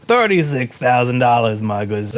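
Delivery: vendor's lightly Scottish patter; name the price in mock Scottish; attempted Scottish accent. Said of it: "I was trying to do Scottish".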